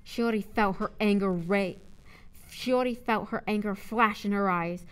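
firm, projected audiobook read; clearly enunciated dramatic narrator; story narration. A narrator's reading. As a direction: narrate the confrontation with punch.

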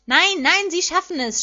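high, urgent cry from the stands; insistent shout. A narrator's reading. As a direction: shout it over the crowd. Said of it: "schrie James".

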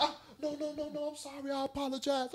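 high, soft mocking impression of the owner; mock apologetic woman. Man mimicking the dog owner apologizing, high soft mock voice. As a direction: lightly voice her flustered apology.

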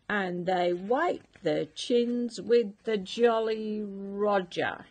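a mock-pompous pirate explanation; pirate captain. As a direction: lay down the law grandly.

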